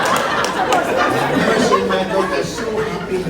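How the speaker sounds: slow, drawn-out, mock-emotional repeat; milk it like you're about to cry; a father hamming up a tearful line at his daughter's wedding. Shown as a demonstration. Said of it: "This is where you have to start crying".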